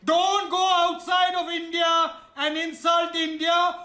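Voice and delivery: angry shout. Real, not acted. Panelist yelling in quarrel.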